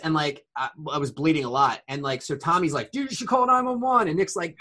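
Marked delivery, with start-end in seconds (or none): 2.9-4.1 higher-pitched imitation of a worried friend; mock urgent plea. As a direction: urge him in a raised voice, lightly acted. Retold friend urging during emergency.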